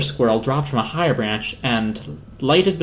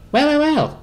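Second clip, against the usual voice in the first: squirrel voice; 12 semitones higher, 3 dB louder than usual. Acted. The squirrel sizes up the visitors, high and sly. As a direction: savour the words like a sly squirrel.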